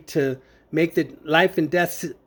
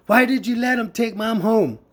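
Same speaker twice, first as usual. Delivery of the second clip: mild mock yell, pitched higher; retold yelling; 5 semitones higher than usual. Sister yelling at the nurse, retold as a mild yell. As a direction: imitate an upset sister's protest without full volume. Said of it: "She was yelling at the nurse".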